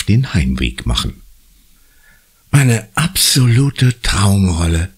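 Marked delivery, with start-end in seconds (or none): 2.5-4.9 slow, sarcastic grumble; grumbling. A narrator's reading. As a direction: drag it out, higher, with heavy irony. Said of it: "brummt Conny". (langsam und ironisch gebrummt)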